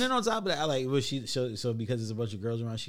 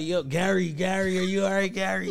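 calling out; 5 semitones higher, 3 dB louder than usual. Retold or imitated. Calling out to unresponsive Gary.

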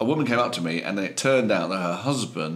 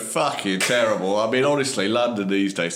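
put-on grumbling, light Cockney accent. Delivery man moaning about London traffic, Cockney accent. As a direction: moan in a working-class Cockney accent. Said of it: "So you see, I can do that".

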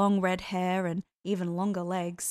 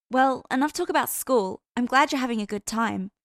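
put-on young woman voice; 4 semitones higher, 6 dB louder than usual. A narrator's reading. Anna voiced by narrator.

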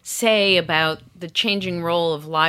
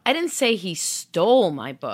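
"stole" punched; "stole" stressed, rest even. Shown as a demonstration. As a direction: hit the word "stole". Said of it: "stress the subsequent word".

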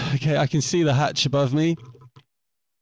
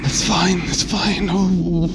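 anxious self-reassurance; 6 semitones higher, 6 dB louder, slower than usual. Real, not acted. Calming himself after fright.

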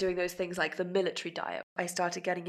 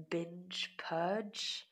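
slow whispered shame word; slow hushed whisper; 5 dB quieter than usual. Real, not acted. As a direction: let the words barely escape, slowly.

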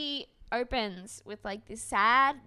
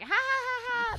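high fake laughter, ha ha; mock laugh; 13 semitones higher, 4 dB louder than usual. Mocking a TV contestant's fake laugh, high mock laugh. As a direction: cackle it out in a put-on giggle. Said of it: "then it's like".

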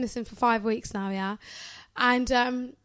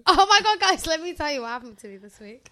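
loud exclaimed opener to the listeners; dramatic story opener; 3 semitones higher, 5 dB louder than usual. Acted. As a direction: launch the story with big drama.

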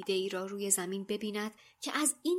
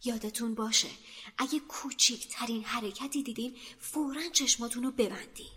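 low warning; 3 semitones higher than usual. Acted. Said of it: "هری آهسته گفت".

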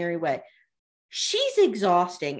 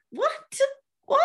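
disbelief. Real, not acted. Reacting in disbelief to cast quote.

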